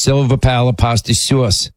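lightly imitating a New York accent, sauce as "suahce"; a hint of New York accent on "sauce"; mock New York accent. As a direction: tease the New York way of saying "Silver pala pasta sauce". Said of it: "And she says".

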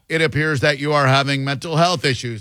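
a hint of a stiff machine reading a script; robot therapist voice. Host mocks a therapist bot, lightly robotic. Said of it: "he goes in".

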